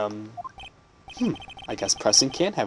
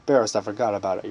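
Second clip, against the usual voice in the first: put-on lower, slipping into the old judge; accidentally doing the judge voice; 4 semitones lower, faster than usual. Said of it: "why am I talking in the judge's voice".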